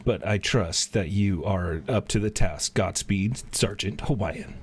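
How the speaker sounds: lightly voiced, steady formal send-off; a hint of a general blessing his troops; solemn commander. The commander sending the hero off to battle, lightly formal.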